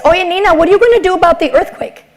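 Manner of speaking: a hint of a prodding mom; mom on the phone. Mother on the phone prodding her daughter, lightly voiced. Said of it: "my mom calls me and says".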